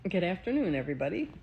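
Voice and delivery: talking around a wad of gum; words a bit chewy from gum; chewing gum. Real, not acted. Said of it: "I have gum in my mouth".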